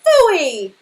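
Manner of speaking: loud, disgusted phooey; hammed-up storybook disgust; loud exclamation. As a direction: blurt it out in disgust. Papa Bear rejects the stew.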